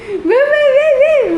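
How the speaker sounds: high laughing taunt; laughing mockery. Real, not acted. Woman laughing as she mocks her dog.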